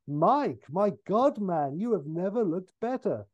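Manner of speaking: a hint of an admiring double take; Cameron Diaz. Actress passing on red carpet, mock gushing. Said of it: "A cameo in Cameron Diaz".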